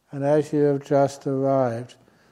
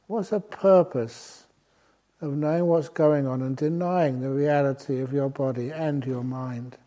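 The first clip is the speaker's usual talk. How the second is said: ordinary delivery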